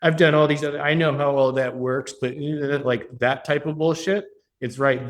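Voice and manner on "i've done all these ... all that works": snide, passive-aggressive client voice; mock-deferential sneer at the expert; sarcastic. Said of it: "the sarcasm, the passive aggressive".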